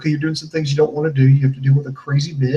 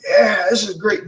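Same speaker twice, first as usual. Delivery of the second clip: higher-pitched pretend delight; mock enjoyment; 5 semitones higher than usual. Partygoer raving over high-end drinks, mock delight. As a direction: lightly send up a guy having fun. Mocking movie-style bachelor party.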